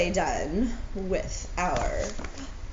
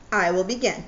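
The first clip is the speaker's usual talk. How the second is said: Owl voice; 5 dB louder, faster than usual. Acted. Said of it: "said Owl".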